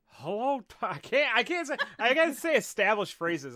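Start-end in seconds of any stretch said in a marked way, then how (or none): 0.1-0.9 raised, tentative cartoon dad greeting; Hank Hill. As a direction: attempt a game greeting in a cartoon Texan voice. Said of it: "Hank Hill as an Elden Ring N P C".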